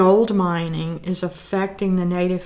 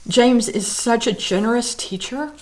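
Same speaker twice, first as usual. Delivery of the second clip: teary; 4 semitones higher than usual. Real, not acted. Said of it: "I don't know why I'm so teary today".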